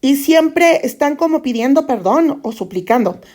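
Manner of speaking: put-on a Mexican trying on a Castilian accent, half-successful; attempted Spain Spanish accent. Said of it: "no me sale la, el acento español".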